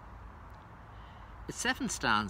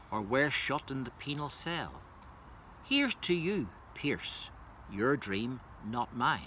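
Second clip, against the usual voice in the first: measured, solemn reading of verse; stately elegy delivery, rising on each address; poem recitation; 3 semitones higher than usual. Acted. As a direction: recite it as a tribute to the fallen.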